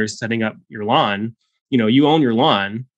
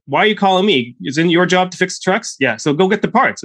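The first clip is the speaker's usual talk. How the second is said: high, exasperated Texan boss imitation; hammed-up Texan telling-off; Texan accent; 8 semitones higher, 3 dB louder than usual. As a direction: scold them as a cranky old Texan. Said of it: "accent every single time".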